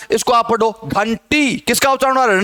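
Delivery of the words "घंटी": घंटी with tongue curled back for the ण before टी; retroflex n sound. Shown as a demonstration. Teacher showing students which nasal sounds, ण in घंटी. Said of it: "ण का उच्चारण हो रहा है".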